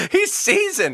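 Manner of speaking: laughing. Real, not acted. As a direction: crack up while saying it. Listener laughs at the story.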